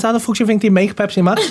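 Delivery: incredulous, cracking up; laughing. Real, not acted. Retold retort, laughing.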